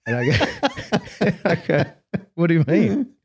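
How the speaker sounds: high giggling through the words; cracking up mid-story; laughing. Real, not acted. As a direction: laugh as you tell it. Laughing while retelling.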